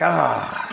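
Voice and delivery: long acted sigh of dread; mock weary groan; reluctant groan. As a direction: groan like it falls to you. Leader dreading an awkward conversation.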